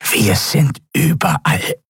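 slow, high, pressed nasal croak; croaking nasal reptile. A narrator's reading. Draxyl prisoner defying the admiral, pressed nasal croak. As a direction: croak it slowly through a tight, nasal throat. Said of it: "krächzte die gepresste, nasale Stimme des Draxyl".

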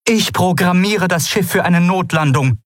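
high, calm voiced alien pilot; Aylan voice. A narrator's reading. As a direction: state the plan steadily in a high voice. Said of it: "sagte Aylan".

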